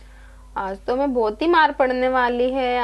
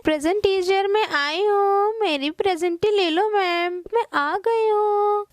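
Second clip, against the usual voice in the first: a touch of crying as she begs; tearful pleading; 4 semitones higher than usual. Acted. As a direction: plead with the teacher through a sob. Late girl begging teacher.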